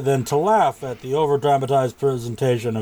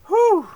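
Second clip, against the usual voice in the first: recovering whew; 4 dB louder than usual. Real, not acted. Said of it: "Something went down the wrong pipe there".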